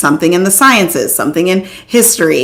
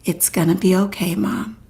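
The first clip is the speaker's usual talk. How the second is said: much softer and slower, gently reassuring mom; soothing reassurance; 6 dB quieter than usual. Retold or imitated. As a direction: hush it down and calm her like the daughter did. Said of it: "that really is so soothing".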